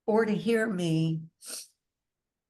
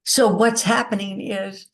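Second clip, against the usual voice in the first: crying; 6 dB louder than usual. Real, not acted. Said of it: "sorry, I'm crying".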